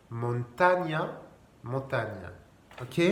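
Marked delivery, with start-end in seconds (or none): 0.1-1.2 "Montaña" drawn out with a gn sound. Shown as a demonstration. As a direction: say "Montaña" slowly with French GN. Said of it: "C'est comme un G N français". (« Montaña » avec le son « gn »)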